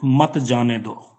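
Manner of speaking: मत held and stressed, leading into जाने दो; slowly group मत with जाने दो as one order. Shown as a demonstration. Teacher dictating the phrase after the comma, मत stressed slowly. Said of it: "फिर लिखा".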